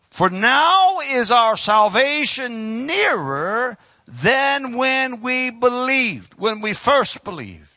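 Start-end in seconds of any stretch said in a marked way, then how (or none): 0.1-6.3 drawn-out, deliberate reading of the verse; slow scripture reading. Acted. Preacher reading scripture slowly to the congregation. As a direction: read the verse slowly, savouring each word.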